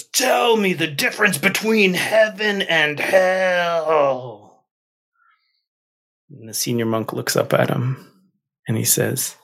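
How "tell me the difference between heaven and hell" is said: higher, slow, commanding warrior; demanding warrior. Acted. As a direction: challenge the old monk, slowly. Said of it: "And the warrior says".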